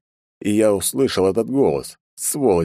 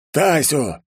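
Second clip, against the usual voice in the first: growl; 9 semitones higher than usual. Acted. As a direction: snarl his enemy's name. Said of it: "прорычал Кикути Дано".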